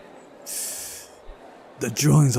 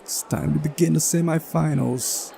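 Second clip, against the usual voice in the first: higher, put-on official voice; commanding announcer; 5 semitones higher than usual. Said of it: "he commanded".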